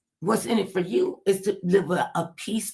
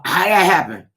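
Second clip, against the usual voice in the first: mock clueless man; 8 dB louder than usual. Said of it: "Chick come up to a fella".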